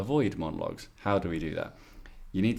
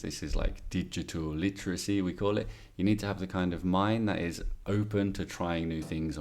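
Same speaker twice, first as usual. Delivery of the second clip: model exam answer. Shown as a demonstration. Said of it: "For example, I'll do one".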